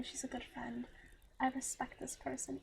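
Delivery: fading to a soft whisper. Real, not acted. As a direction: let it drop to a whisper. Sincere praise of friend.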